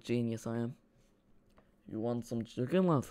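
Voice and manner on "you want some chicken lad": lightly mimicked second-hand Scouse accent; a foreigner's try at Scouse accent, underplayed; Fabinho. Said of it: "Fabinho doing an impression of a Scouse accent".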